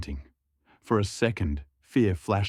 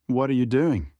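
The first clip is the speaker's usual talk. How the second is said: startled protest; 5 semitones higher, 4 dB louder than usual. Acted. Woken passenger protests.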